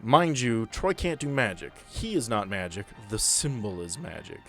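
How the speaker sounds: usual speaking voice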